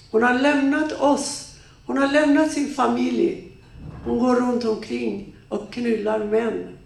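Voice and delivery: mock her to the children; contemptuous father. Father slanders mother to children.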